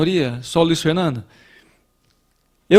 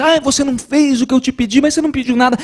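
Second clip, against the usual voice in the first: raised, put-upon reproach; complaining; 7 semitones higher, faster than usual. Acted. Coworker complaining about an unasked favour, in a raised reproachful voice. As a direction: whine that they didn't do what you asked. Acted complaint between two people.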